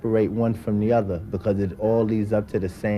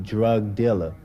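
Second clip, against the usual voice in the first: "Drug dealer" said firmly, both words pressed; stressed repeat; slower than usual. Shown as a demonstration. Speaker driving his point home to the forum, pressing "Drug dealer". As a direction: lean on "Drug dealer" so it sinks in. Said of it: "See what I'm saying?".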